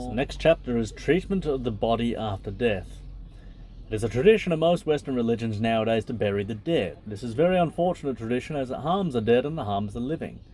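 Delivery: even, measured reading voice; book reading. Acted. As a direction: read the passage out steadily. Reads the book aloud.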